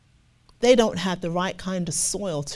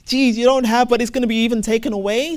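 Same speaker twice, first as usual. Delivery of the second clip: shocked; 5 dB louder, faster than usual. Real, not acted. Reacting to a terrifying verse.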